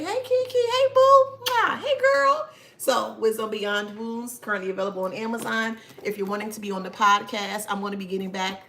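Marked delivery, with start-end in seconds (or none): 0.0-2.5 high, loud squealed hello; excited greeting. Real, not acted. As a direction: greet her like a bestie. Greeting a live viewer.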